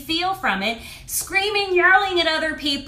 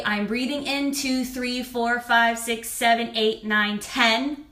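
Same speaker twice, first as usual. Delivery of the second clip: calm counting; slower than usual. Shown as a demonstration. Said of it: "breathing in and I say".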